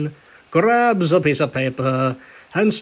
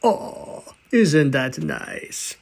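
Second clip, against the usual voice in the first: mock aww; 3 semitones lower, 3 dB quieter, much slower than usual. Narrator comments on the sweet letter.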